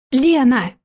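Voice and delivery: loud mock shout of a name. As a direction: yell out for her in the woods. Father searching, shouting names.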